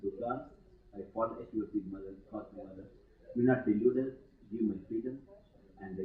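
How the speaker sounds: hushed, pleading prayer to Durga; prayerful plea. Retold or imitated. Swami voicing a devotee's prayer to Mother Durga, hushed and pleading. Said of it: "Pray to Mother".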